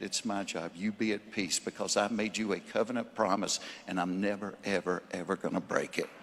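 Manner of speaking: quiet, intimate preaching; soft sermon close. Acted. Preacher quietly assuring the congregation of God's peace. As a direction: lean in and comfort them softly.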